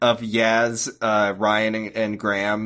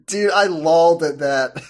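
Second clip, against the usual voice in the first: put-on higher, eager trendy-kid voice; trying-too-hard hip voice; 4 semitones higher than usual. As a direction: sound desperate to be cool. Doctor acting hip and trendy.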